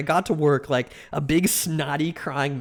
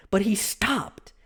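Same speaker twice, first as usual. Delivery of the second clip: whispered suspense; 4 semitones higher, slower than usual. Real, not acted. Suspense in squirrel story.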